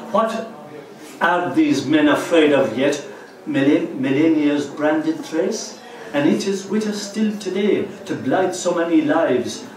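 firm, declaimed verse with pauses between phrases; poem recitation. Acted. Recites own poem to audience.

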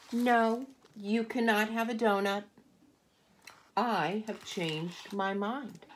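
panda firmly refusing; firm refusal. Acted. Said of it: "And the panda says".

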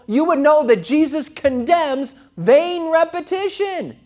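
high, loud mock objection; hammed-up critic, loudly accusing from on high in pitch; indignant challenge. Acts out Protestant objections to the Rosary.

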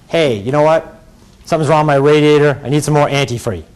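lightly mocked casual talk, a touch low; mocking imitation. Lawyer ridiculing how she supposedly talks, mock casual. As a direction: play an implausible everyday request for ridicule. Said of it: "As if that's how she talks".

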